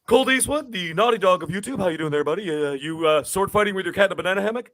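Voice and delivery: imitating Dealer's teasing. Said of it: "He'd be like".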